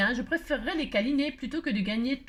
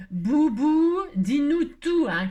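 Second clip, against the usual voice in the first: plus fort, maman qui exige; cri de maman à son petit; maman qui crie; 3 semitones higher, 6 dB louder, slower than usual. A narrator's reading. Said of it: "crie maman en faisant trembler les nuages". (la maman crie à Boubou de tout dire, plus fort)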